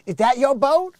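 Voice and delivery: high, loud question from an admiring woman; impressed ladies. Retold or imitated. Ladies coming over to the dock, impressed. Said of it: "ladies come over like".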